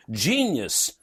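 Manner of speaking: dripping sarcasm; sarcastic. Acted. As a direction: sneer the word like a fake compliment. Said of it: "deep and guttural sarcasm".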